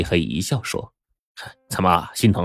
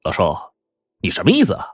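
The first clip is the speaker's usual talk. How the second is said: rowdy nephew; 5 semitones higher, faster than usual. Acted. Rude nephew bursts in furious.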